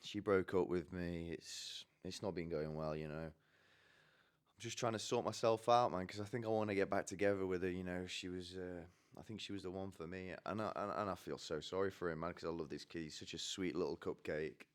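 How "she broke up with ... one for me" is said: subdued, mildly dejected retelling; a bit upset. Retold or imitated. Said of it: "he gets a bit upset".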